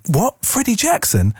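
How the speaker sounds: high, loud stunned echo; loud disbelief. Retold or imitated. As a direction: blurt it out in shock so the office hears. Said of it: "repeated out what he'd said quite loud".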